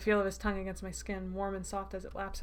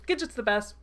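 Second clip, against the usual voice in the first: loud, delighted fan cheer in near-usual pitch; excited cheer; 2 semitones higher, 6 dB louder than usual. Real, not acted. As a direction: cheer for your favourite character. Reader cheers the rescuing character.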